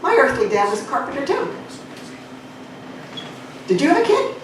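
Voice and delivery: hammed-up high-pitched Jesus. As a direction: play Jesus as a chirpy high innocent. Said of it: "And Jesus said".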